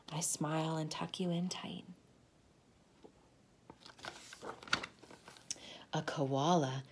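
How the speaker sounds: soft whisper. A narrator's reading. Mother tucking child in tight, whisper. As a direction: tuck the words in gently.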